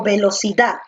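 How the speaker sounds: "velocidad" with the final DAD stressed; teacher gives the right stress, on the last syllable. Shown as a demonstration. Teacher lands on the correct stress for the class. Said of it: "con la última".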